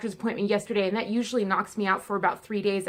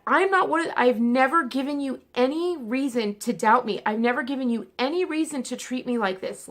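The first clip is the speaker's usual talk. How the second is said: indignant; 3 semitones higher than usual. Retold or imitated. Retelling how she confronted her pain doctor, indignant and insistent. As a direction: push back hard, repeating the question.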